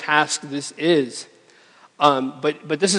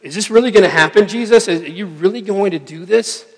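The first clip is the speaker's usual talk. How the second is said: louder, higher, fast stunned protest; can't believe this is really happening; rushed, pleading disbelief; incredulous disbelief; 4 semitones higher, 5 dB louder than usual. Retold or imitated. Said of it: "he's just like".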